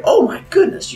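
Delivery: very high-pitched, cooing delight; gushing. Acted. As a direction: coo it high, like admiring a pet. Leto gushing over the swan.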